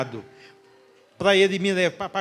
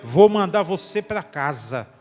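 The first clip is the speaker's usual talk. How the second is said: slow, louder and solemn; voice of God; 5 dB louder, slower than usual. Retold or imitated. Preacher repeating God's words to the church, slow and loud. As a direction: let each word land slowly and weighty. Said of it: "aquilo foi a voz de Deus".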